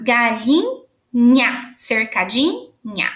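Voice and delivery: slow, stretching the nha of galinha and cercadinha; lingering on the ending of each word; drawn-out endings. Shown as a demonstration. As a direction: draw out the nha ending so kids hear it. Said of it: "todas que tiverem N H A".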